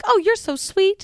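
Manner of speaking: slow, high Southern gushing; drawn-out sweet Southern thanks; old Southern woman. Acted. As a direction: coo it like an old Southern lady. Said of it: "like an old Southern woman going".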